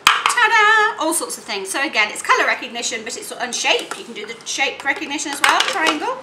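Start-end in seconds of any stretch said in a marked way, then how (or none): 0.1-0.9 ta-da. Real, not acted. Finishing the demo.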